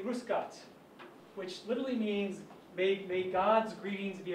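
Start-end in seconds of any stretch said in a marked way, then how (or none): 0.0-0.6 grüß Gott said the Bavarian way; Bavarian greeting. Shown as a demonstration. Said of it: "In Bavaria, they say".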